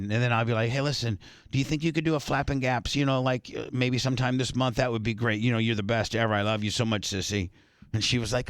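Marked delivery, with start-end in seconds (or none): 0.7-7.5 low, softening toward the end; butter up a sibling for a favour; sweet-talking. Acted. Host acting out coaxing the sister into a show, sweet-talking. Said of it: "if I call her sissy".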